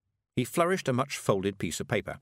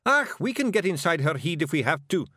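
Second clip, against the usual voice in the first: high, assured Scots voice; confident Scottish Feegle; 7 semitones higher, 4 dB louder than usual. A narrator's reading. Rob assuring Miss Level they can get inside, confident. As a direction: assert it in high, emphatic Scots.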